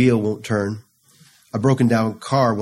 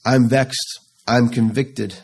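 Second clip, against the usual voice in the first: mild pleading lament; 2 semitones higher, slower than usual. Acted. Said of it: "David cries out".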